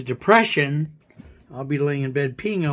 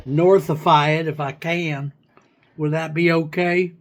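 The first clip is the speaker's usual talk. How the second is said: pretend hillbilly. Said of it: "pretend hillbilly slang".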